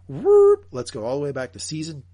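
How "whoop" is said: high, loud whoop; rewind whoop. Real, not acted. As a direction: let out a sudden high whoop. Sound effect for jumping back seasons.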